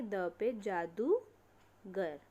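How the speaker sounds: जादूगर said very slowly, ऊ held long; long u shown. Shown as a demonstration. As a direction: stretch out the ऊ in जादूगर. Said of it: "किस पे मात्रा लगेगी". (जादूगर में ऊ को धीरे लंबा खींचकर)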